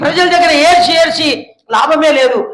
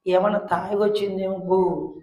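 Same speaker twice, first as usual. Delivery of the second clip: muttered aside; 6 semitones lower, 11 dB quieter than usual. Retold or imitated. Eli's suspicious thought.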